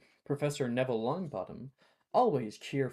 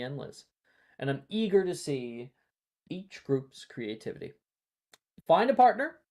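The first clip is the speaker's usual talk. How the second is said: a lightly voiced eager teacher, a bit louder; cheerful professor; 3 semitones higher, 6 dB louder than usual. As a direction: share the ideas with eager warmth. GM voicing Neville continues.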